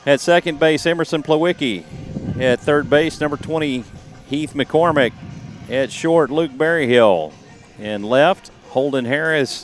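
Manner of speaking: upbeat announcer reading the lineup; lineup announcement. Acted.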